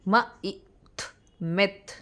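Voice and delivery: म, short ई, थ apart, then joined मिथ; sounding out and blending. Shown as a demonstration. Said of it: "the sound of I is ई".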